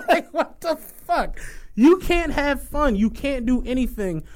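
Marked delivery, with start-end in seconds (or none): 0.1-3.0 laughing disbelief. Real, not acted.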